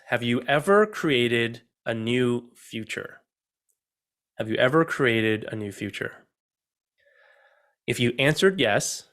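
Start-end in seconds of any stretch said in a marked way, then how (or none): 0.1-6.2 slow, deliberate question. Shown as a demonstration. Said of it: "I want you to think about this".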